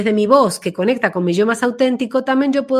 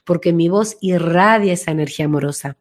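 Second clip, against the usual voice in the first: loving voice; 4 semitones lower than usual. Shown as a demonstration. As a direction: let love radiate through the voice. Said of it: "soy amor puro".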